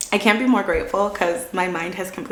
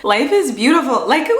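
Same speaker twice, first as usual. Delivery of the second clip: laughing through it; 4 semitones higher, 4 dB louder than usual. Retold or imitated. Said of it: "I was sobbing".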